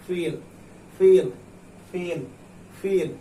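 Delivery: "feel" with a long ee, each one set apart; long vowel. Shown as a demonstration. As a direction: stretch the ee in every "feel". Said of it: "बड़ी ज़्यादा खींचना है".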